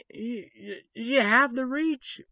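lightly voiced God to Abraham; voicing God. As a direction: proclaim it like a divine command. Quoting God speaking to Abraham.

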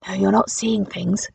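put-on soft, slow hushed old lady; old woman whispering. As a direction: hush it gently like a secret. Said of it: "the old lady whispered".

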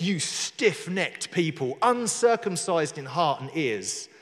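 slow, deliberate scriptural rebuke; measured accusation, word by word; fighting talk. Acted. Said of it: "fighting talk".

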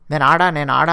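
"ఆడా" ending in long ఆ, rising at the end; copied slang mannerism. Retold or imitated. Contestant answering him in his slang, "ఆడా" with long ఆ. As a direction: echo the slang "నేను ఆడా" with an open final vowel. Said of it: "అదే స్లాంగ్లో అతని మేనరిజంతోనే".

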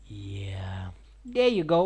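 hushed whisper. Real, not acted. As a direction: whisper it under breath.

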